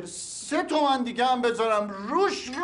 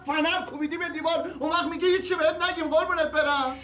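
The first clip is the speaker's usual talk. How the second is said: raised, higher-pitched accusation; angry accusation; 5 semitones higher, faster than usual. Acted. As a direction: hurl the blame at him. Accusing during quarrel. (اعتراض عصبانی با صدای زیرتر)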